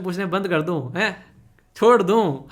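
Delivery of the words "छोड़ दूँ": mock offer, louder and breaking into laughter; laughing tease. Real, not acted. Teacher teasing students about stopping his questions, laughing. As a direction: ask it teasingly through a laugh.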